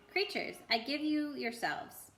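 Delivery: slow, grand lion's voice; strong happy voice. Acted. Aslan blessing the new creatures, strong and happy. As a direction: proclaim it gladly, slowly. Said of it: "said the strong, happy voice of Aslan".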